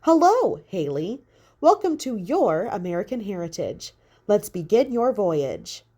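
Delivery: sing-song tour hostess, lightly done; perky hostess voice. Acted. Projected woman welcomes Haley, light perky hostess.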